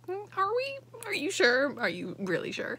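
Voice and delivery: rising, doubting mock questions; a touch of nervous doubt; doubtful. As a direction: sound unconvinced and anxious. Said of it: "she's like".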